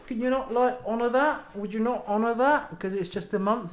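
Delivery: high, pleading disbelief; defeated pleading. Retold or imitated. Retelling pleading with the retailer over the warranty, high and defeated. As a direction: whine the plea, half laughing. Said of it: "I just sounded defeated".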